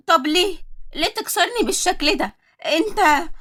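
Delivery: furious wife yelling at husband; screaming. Acted. Wife screaming at her cheating husband, furious. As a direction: shout it out, hurt and angry. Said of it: "وأنا بصرخ".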